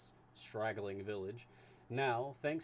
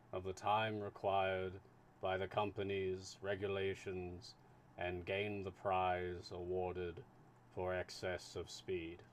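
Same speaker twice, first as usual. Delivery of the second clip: lightly voiced slow, steady official; unhurried, measured consul; 2 semitones lower than usual.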